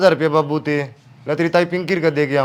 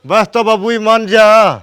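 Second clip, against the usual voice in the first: pleading; 2 semitones higher, 4 dB louder than usual. Acted. Son begs father to relent. (गिड़गिड़ाकर मनाते हुए)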